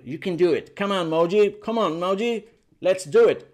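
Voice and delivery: rally them like a coach; cheering on. Real, not acted. Teacher urges Moji to practise, cheering on.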